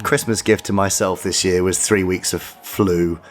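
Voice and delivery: hoarse after the flu; raspy, flu-worn voice. Real, not acted. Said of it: "my silly, raspy voice".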